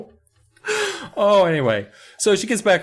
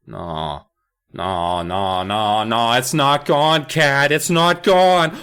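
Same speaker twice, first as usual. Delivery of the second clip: dread-filled denial; slower than usual. Retold or imitated. Daniel horrified at sink.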